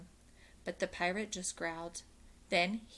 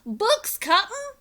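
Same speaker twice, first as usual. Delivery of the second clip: high loud crewman shout; pirate shout; 11 dB louder, slower than usual. A narrator's reading. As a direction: call it down from above. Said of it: "Pinky shouted down".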